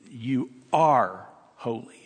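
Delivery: "You ARE holy" slow, with ARE rising and held; statement. Shown as a demonstration. Pastor showing the statement reading, "ARE" stressed. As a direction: lean on ARE, slow and firm. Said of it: "translate that as a statement".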